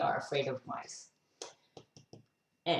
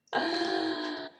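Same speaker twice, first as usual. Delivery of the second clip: drawn-out gasp. Pretend. Reacting to the next picture.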